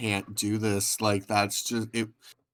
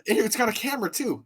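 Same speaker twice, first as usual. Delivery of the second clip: mock wonder; 11 semitones higher than usual. Mocking Edge's phone bit.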